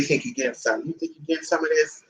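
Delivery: low teasing. Acted. Teasing dog with food.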